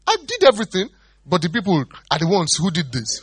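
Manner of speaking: high, loud excuse-making; blaming Saul. Retold or imitated. Saul blaming the people to Samuel, high and loud. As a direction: pass the blame high and loud.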